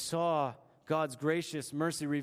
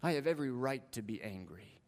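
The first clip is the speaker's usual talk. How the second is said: defiant Jonah; 5 semitones lower, 4 dB quieter than usual. Acted. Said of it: "Jonah shakes his fist at God and says".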